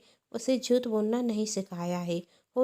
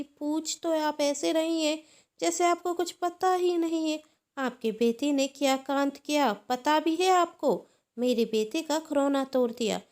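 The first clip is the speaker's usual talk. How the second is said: loud, higher scolding; furious taunting aunt; angry aunt; 4 semitones higher, 4 dB louder than usual. Acted. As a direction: scold her sister-in-law with rising anger. Angry aunt scolds over toy.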